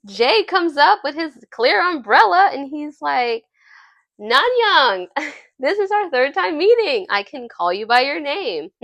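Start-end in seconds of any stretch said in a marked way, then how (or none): 4.2-8.7 higher, gleeful mock announcement; dorky excitement. Jay under his umbrella greeting her, dorky mock excitement. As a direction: play a dork proudly announcing a milestone. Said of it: "he knows what it sounded like".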